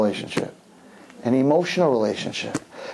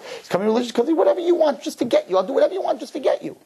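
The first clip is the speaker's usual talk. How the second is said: laughing while explaining; 9 semitones higher, faster than usual. Real, not acted. Exposing the boy's motive.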